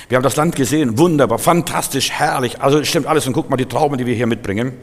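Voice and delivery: eager, gushing praise of the land; excited report. Retold or imitated. Spies returning tell the people about the land, mildly excited. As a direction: sell the land's wonders with enthusiasm.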